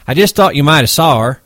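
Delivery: high, loud insisting whine; defensive hothead protesting; Curly insisting. Acted. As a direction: push back high and urgent.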